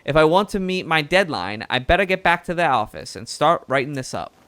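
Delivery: put-on the reporter voice slipping into a Southern US accent; a touch of Southern US twang in a chipper reporter. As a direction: let the bird reporter drift Southern US. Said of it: "now it's going really southern".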